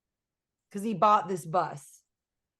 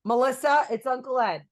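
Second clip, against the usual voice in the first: imitated uncle; 4 semitones higher, 4 dB louder than usual. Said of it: "And he's like".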